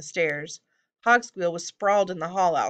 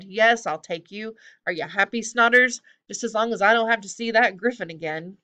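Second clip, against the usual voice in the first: irritated surrender, growing louder and higher; grudging goblin; 4 semitones higher, 5 dB louder than usual. Acted. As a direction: give in with bad grace.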